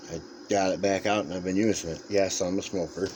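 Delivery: talking with a dry mouth; parched, sticky-mouthed speech. Real, not acted. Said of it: "my mouth is dry".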